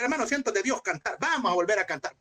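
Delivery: mock pastor. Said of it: "Y se para el pastor".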